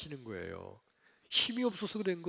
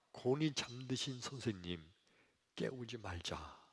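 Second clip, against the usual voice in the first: softly, lower, so the sleeper stays asleep; hushed disciples; 4 semitones lower, 9 dB quieter than usual. Acted. Disciples to each other beside sleeping Jesus, hushed. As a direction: keep it down, don't wake the teacher.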